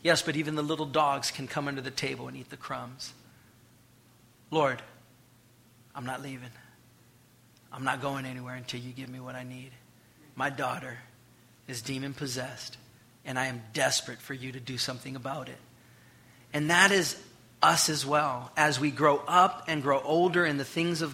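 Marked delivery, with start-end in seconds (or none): 4.5-15.6 desperate plea. Retold or imitated. Voicing the desperate mother.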